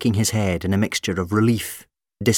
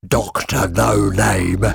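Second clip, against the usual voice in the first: amused, slow mocking; 4 dB louder, much slower than usual. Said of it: "It let out a guffaw of laughter".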